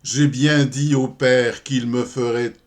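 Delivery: slow, deliberate comic verse reading; poem recitation. Acted. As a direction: spin out the verse with pauses before each reply. (récitation de poème comique, lente et ménagée)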